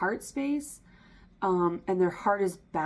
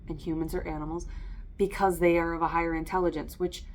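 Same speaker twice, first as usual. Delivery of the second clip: usual speaking voice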